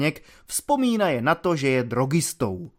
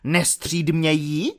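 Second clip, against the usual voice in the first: a hint of a huffy superior officer; pompous offended officer. Lieutenant scolds the cadet in the car, lightly voiced and indignant.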